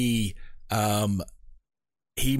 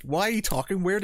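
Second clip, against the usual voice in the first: teasing; 8 semitones higher than usual. Retold or imitated. Teasing a friend in a quote.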